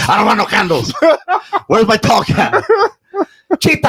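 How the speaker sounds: high, strained mock yell; demanding a tall can, yelling high; retold scream at mom. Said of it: "I was screaming at my mom".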